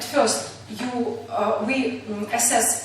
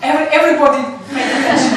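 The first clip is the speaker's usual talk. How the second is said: laughing; 2 semitones higher, 8 dB louder, much faster than usual. Real, not acted. Class teases teacher.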